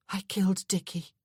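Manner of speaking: flat, drained and dull. Acted. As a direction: say it emptied of feeling. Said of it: "her voice dull now".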